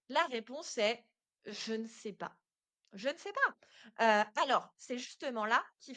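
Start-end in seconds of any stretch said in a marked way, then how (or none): 1.5-2.3 softly voiced typical answer; réponse hésitante imitée. Imagined typical answer, given twice. 2.9-4.2 slow, louder repeat of the imagined answer; réponse appuyée. Acted.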